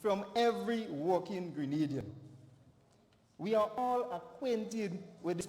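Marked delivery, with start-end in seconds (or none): 0.0-2.1 "every" pressed hard again; stress on every. Real, not acted. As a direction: land on "every" with weight. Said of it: "and I stress the word every".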